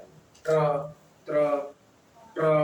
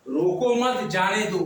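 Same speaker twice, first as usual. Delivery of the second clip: रोको मत as one group, then जाने दो; pause after मत. Shown as a demonstration. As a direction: keep मत with रोको and set जाने दो apart. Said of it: "रोको मत के बाद लगाएंगे". (रोको मत साथ में, फिर जाने दो)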